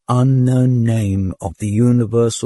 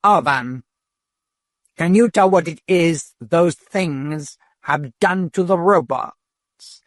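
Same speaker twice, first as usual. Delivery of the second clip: much higher, slow and shrill; frightened questioning; 7 semitones higher than usual. A narrator's reading. Dodath frightened, questioning the patrol robot. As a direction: press the robot, scared.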